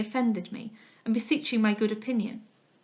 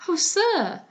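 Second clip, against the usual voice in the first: higher, louder cry cutting him off; interrupting cry; 8 semitones higher, 5 dB louder than usual. Acted. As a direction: break in sharply over his flattery. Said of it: "cried I, interrupting him".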